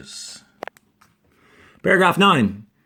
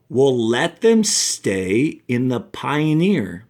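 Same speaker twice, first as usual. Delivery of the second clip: slow, expressive read-aloud for the class; story reading; slower than usual. A narrator's reading. Teacher reads a science fiction excerpt to her class, expressive storytelling.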